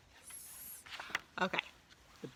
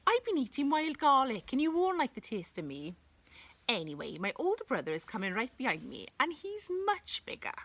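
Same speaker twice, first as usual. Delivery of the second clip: goat voice; 6 semitones higher than usual. Acted. Second goat talks to troll.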